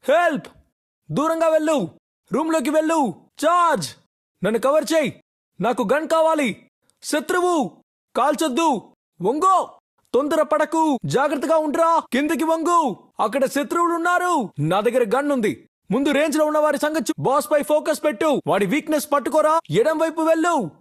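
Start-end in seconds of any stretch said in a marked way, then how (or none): 0.0-14.5 urgent squad commands, drawn-up and projected; urgent callouts. Acted. Player warning teammates of enemies, urgent calling out. 15.9-20.7 projected, urgent in-game commands; urgent callouts. Acted. Player directing squad to the safe zone, urgent calling out.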